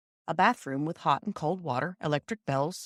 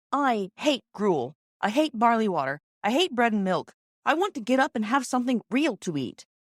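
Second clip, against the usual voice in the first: put-on a sick boy whining and demanding real food in a higher voice; petulant child, higher and louder; Peter complaining; 5 semitones higher, 3 dB louder than usual.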